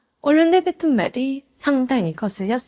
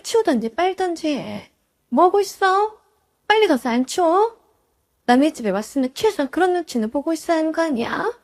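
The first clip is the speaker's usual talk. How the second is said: exploding at sister-in-law. Retold or imitated. Daughter-in-law scolding the sister-in-law about the bathtub, angry outburst. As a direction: snap and order her to clean up. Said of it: "저도 모르게 폭발해버렸습니다".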